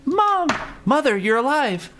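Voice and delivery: high, hammy astonishment; bad movie acting. Quoting Mortal Kombat Annihilation, high hammy surprise. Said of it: "You know what's bad, Daddy? Mortal Kombat Annihilation".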